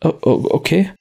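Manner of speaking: stotternder Wirt, deutlich höher; er fleht, stammelnd und hoch; verängstigter Wirt. Acted. Wirt wird bedroht. (verängstigter Wirt, hoch und stotternd)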